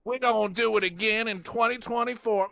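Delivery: high, loud put-on Southern Black accent; mocking fake accent. Host mocks politician's fake accent, high and loud. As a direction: ham up a pandering fake accent. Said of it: "break out the fake accents".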